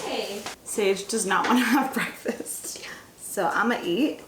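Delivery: hushed whispered aside; whispering. Real, not acted. Aside while toddler nearby.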